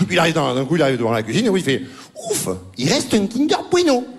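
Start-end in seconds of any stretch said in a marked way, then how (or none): 2.3-4.0 slow, higher, hammed-up sigh of relief; mock relief. Comedian mimicking the actor's relief, hammed-up. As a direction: overplay the relief.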